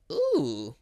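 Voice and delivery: ordinary delivery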